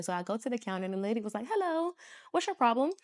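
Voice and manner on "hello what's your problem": pharmacy clerk. Retold or imitated. Imitates pharmacy lady greeting her.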